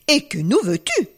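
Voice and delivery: ton menaçant. Acted. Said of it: "d'un ton menaçant".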